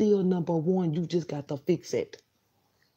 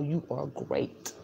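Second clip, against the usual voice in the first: softer and slow, each word drawn out; hushed affirmation; 4 semitones lower, 9 dB quieter, much slower than usual. Real, not acted. Telling her viewers they're great, softly and slowly. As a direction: let it sink in gently.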